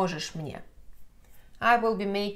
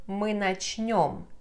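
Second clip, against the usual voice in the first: slow demo; slower than usual. Shown as a demonstration. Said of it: "Начать is conjugated".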